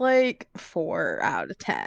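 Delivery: very low, slow, drawn-out, unimpressed.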